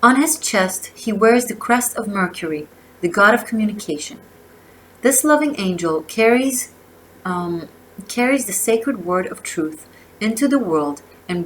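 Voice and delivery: measured oracle-card reading, phrase by phrase; reading aloud. Real, not acted. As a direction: read the card's message out with emphasis. Reads oracle guidebook aloud.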